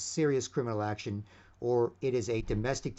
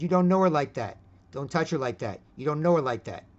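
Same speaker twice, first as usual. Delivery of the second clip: louder, stern telling-off; firm louder warning; 5 dB louder than usual. Retold or imitated. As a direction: warn him off hard, no joking. Confronting the guy at the club.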